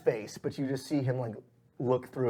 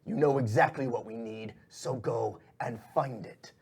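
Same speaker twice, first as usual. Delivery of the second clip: controlled boss, stretching the words; displeased shadowy boss. Acted. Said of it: "He's like".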